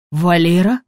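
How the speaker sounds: startled cry of a name, rising; a scared gasp of a name; frightened. A narrator's reading. Woman finding her friend collapsed, frightened. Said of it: "испугалась Елена".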